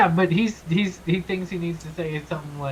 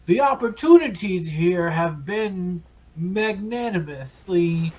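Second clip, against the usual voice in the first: regal voice. Acted. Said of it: "he's putting on his, his regal voice".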